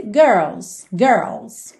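"girls" with curled R, L, then a voiced S; final S added. Shown as a demonstration. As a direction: close "girls" on a z sound. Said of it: "no caso aqui com S".

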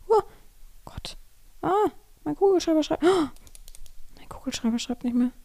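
annoyed whisper about pen. Real, not acted. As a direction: whisper it in mild frustration. Pen stops working.

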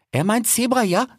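put-on high slangy cheetah girl; cheetah Salome. A narrator's reading. Cheetah sister translates for her brother, high slangy voice.

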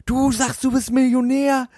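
squeaky high whiny imitation of a bragging stranger; mocking high voice of the drunk guy. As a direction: mimic him in a high, petulant squeal. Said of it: "hat er immer gesagt".

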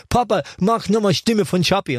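put-on high child voice begging dad; son pleading. Son Joshua begs dad for the voice, high and childlike. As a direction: beg like a small boy. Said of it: "hat Joshua immer gesagt".

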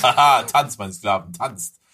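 lightly voiced cruel owner sneering; mock villain owner. Friend plays the Chipmunks' owner as a villain, half-hearted gloat.

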